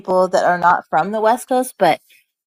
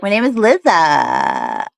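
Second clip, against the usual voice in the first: imitating Lizzie; 5 dB louder, slower than usual. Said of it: "She'd be like".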